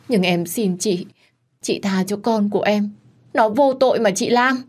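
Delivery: a touch of a tearful plea, rising at the end; tearful pleading. Acted. Hạ pleads with Lam in front of the in-laws, tearfully. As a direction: beg for mercy for her baby. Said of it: "nó ôm má và bật khóc".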